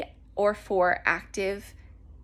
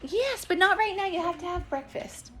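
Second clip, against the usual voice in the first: firm parent; 9 semitones higher than usual. Real, not acted. Telling child to eat breakfast.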